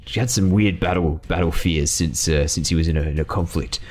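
a hint of a rough mercenary, dismissive; lightly voiced greedy mercenary. Bounty hunter brushes off his friend's fit, lightly voiced. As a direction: shrug off the friend, only the money matters.

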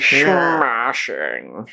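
British "Smashing." with a slushy sh; mock British. Friend echoes the word in a mock British accent.

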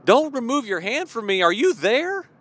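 desperate psalm cry, building up. Retold or imitated. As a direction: cry out to God in anguish, pleading. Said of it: "He's crying out like".

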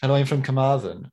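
put-on Carmarthen accent; Welsh accent. Comedian telling a joke about growing up in Carmarthen, imitated Welsh accent. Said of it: "a Carmarthen accent".

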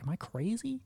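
quizzing your own reflection, high and unsure; puzzled self-questioning. Retold or imitated. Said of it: "look at yourself in the mirror like".

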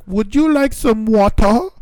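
high, slow, odd singsong offer; stretched-out, exaggerated question; imitated students. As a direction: mimic students sounding out a strange phrase. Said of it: "trying to say, like, Japanese stuff".

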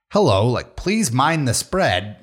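slow, calm transit announcement; calm announcer voice. Retold or imitated. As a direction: read it like a subway notice. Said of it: "but he's like".

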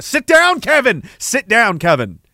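acted scolding. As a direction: scold an unruly kid, mock-stern. Acting out scolding an unruly Kevin.

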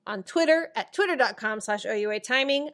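running out of air; breathless after a long read; out of breath. Real, not acted. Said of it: "I just ran out of breath".

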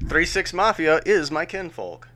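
Mayo accent, lightly put on. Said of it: "in the most Mayo voice I could muster".

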